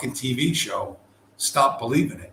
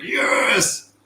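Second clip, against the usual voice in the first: grudging yes; 10 semitones higher, 5 dB louder than usual. Retold or imitated. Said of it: "he was like".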